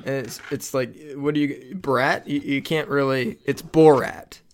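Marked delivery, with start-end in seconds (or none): 3.5-4.4 Borat with BOR as in boring; correct pronunciation. Shown as a demonstration. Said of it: "Like you're boring a hole".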